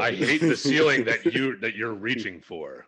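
dramatic anime rival sneer; overacted anime dub. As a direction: spit it like a jealous rival. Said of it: "You sound like some douchebag anime character".

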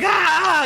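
sudden high yelp of pain; a bitten man's high shriek; screaming guard. Acted. Game master voicing the bitten guard, a high shriek. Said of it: "the guy starts screaming".

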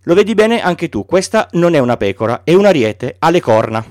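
put-on a small boy insisting on his sheep; gently voiced child asking for a sheep; Little Prince.

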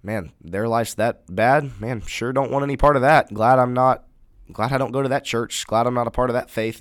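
mild mock disdain; mock scornful outsider. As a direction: sneer at the church like an outsider. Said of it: "and says".

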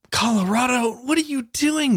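playful astonished gasp; mock shock. Real, not acted. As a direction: act scandalised at a state.

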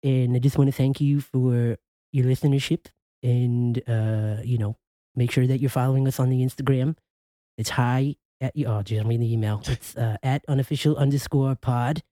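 lightly put-on cable guy with a lisp. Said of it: "Add the lisp".

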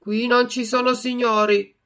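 loud, hard retort; harsh reply. A narrator's reading. Puppeteer rebuffs Pinocchio's plea, harsh and loud. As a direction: cut him off sternly. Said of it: "replicò duramente".

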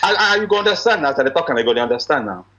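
brisk Nigerian Pidgin; fast Nigerian broken English. Shown as a demonstration. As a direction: rattle it off in Naija Pidgin. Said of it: "my broken English".

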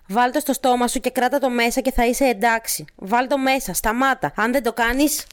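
put-on a touch of menace, pressing the child; mildly scolding. Woman in script orders and threatens. (αυστηρά, επιτακτικά)

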